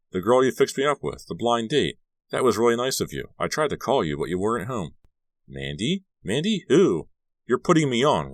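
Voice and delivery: high-pitched disbelief. A narrator's reading. Carrie insisting Margot set up the date, voice rising. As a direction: let the pitch climb as confusion grows. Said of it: "if your voice gets any higher".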